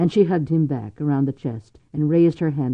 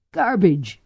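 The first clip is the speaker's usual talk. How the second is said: choked; 6 semitones higher, 3 dB louder than usual. A narrator's reading. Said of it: "she choked back at him".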